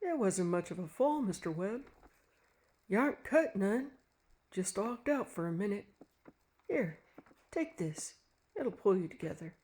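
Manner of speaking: soft kind country voice; kindly. A narrator's reading. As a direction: reassure the fallen man gently. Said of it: "a kindly voice was saying".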